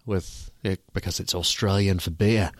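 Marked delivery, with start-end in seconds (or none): 1.2-2.5 put-on Australian accent. Host naming his Foster's beer, mock Australian accent. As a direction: lightly imitate an Australian ad line. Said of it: "I just did that accent".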